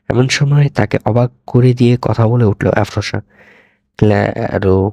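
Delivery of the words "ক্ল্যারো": a lightly voiced robot girl, halting; halting robotic syllables. A narrator's reading. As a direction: break the name into slow pieces. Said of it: "ভেঙে ভেঙে উচ্চারণ করলো".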